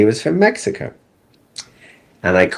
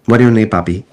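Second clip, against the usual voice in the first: put-on Mexican accent; 4 dB louder, faster than usual. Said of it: "but I can do the accent for you".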